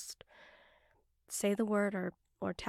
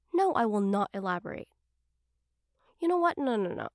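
flustered; 5 dB louder, faster than usual. Acted. Cutting off embarrassing question.

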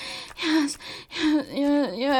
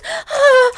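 loud high moan; 8 semitones higher, 10 dB louder than usual. Acted.

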